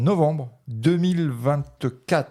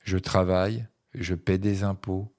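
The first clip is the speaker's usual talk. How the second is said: lecture littéraire. Acted. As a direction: lecture posée, phrases séparées par des pauses. Lit un autre extrait. (lecture à voix haute, posée et sobre)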